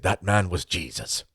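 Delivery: a slow, lightly voiced Irish priest accent; mild Irish accent, drawn out like a sermon; Irish priest impression. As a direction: let the line land slowly in an old priest's Irish accent. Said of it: "I'll do my best Irish impression".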